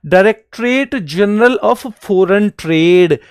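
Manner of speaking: slow and deliberate. Shown as a demonstration. Teacher spells out full name.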